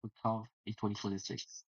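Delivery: measured show-closing announcement; announcer sign-off. Real, not acted. Host signing off until the next tournament, measured announcer delivery. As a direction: close the broadcast in a composed announcer voice.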